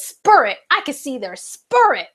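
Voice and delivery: a light Baltimore accent imitating a singer; a playful Baltimore accent as she quotes the singer. Vlogger imitates a singer's Baltimore accent with amused admiration. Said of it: "she has an accent from, like, Baltimore".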